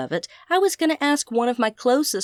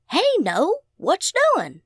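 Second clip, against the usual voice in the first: higher, easy Southern country twang; 8 semitones higher, slower than usual. A narrator's reading. Old friend Skeet answers the phone in a Southern twang. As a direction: greet her like a good ol' Southern boy. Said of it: "he said in his familiar twang".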